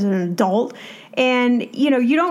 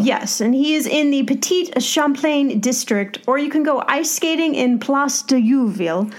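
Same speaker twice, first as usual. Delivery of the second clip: a lightly put-on, hammy French accent on the place names; mock French accent; 3 semitones higher than usual. Tour host hamming up Quebec place names, in a mock French accent. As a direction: play up the French names with a clumsy half-Italian French accent. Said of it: "that was a terrible accent".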